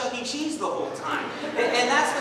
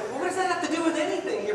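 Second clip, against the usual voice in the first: exasperated teacher; 8 semitones higher, faster than usual. Retold or imitated. Teacher snaps at kid.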